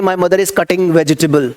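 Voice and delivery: slow, deliberate model sentence; careful classroom demo of the wrong wording; wrong version, slow. Shown as a demonstration. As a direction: spell out the wrong example slowly. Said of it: "नहीं भाई, नहीं बोलना".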